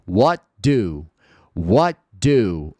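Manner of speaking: What do said with no T, flowing into the d; T dropped. Shown as a demonstration. Teacher demonstrating the dropped T. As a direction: let the T fall away in What do. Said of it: "o T já caiu fora".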